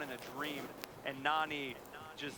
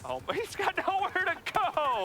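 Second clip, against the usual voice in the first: excited; 13 semitones higher, 4 dB louder than usual. Real, not acted. Frantic play-by-play.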